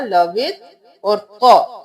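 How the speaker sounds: "लवित" closed firmly before the thick letter; separated syllable. Shown as a demonstration. Teacher separating the syllables for students, "लवित" firmly closed. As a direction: say "लवित" on its own, stopping on the t. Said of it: "क़ मोटा".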